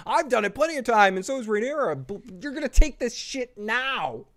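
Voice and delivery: hammed-up angry mother forcing it; mock angry mother. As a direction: shove the words at her like a furious queen. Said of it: "She's like".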